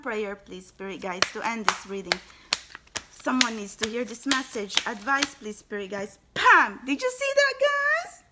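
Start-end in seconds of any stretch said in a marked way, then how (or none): 6.3-8.2 loud bam, then a much higher thrilled question; excited surprise. Real, not acted. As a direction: jump up in pitch, thrilled by what just happened. Reacts to card flying out.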